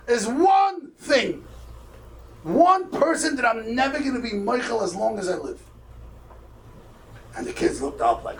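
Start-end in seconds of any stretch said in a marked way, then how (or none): 0.1-5.6 raised pitch, heavy slow emphasis at the start; retold deathbed refusal, weighing the first words; solemn vow. Dying father telling his children whom he won't forgive, solemn vow.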